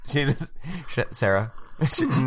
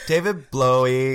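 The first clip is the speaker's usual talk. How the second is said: laughing mispronunciation. Retold or imitated. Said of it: "And I said, "David Blowy".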